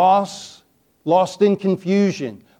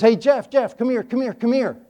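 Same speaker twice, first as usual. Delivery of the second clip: lightly voiced uncle calling, higher; 5 semitones higher than usual. Uncle calls nephew back in the dark, mock urgent call. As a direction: call him back urgently, a hint of teasing.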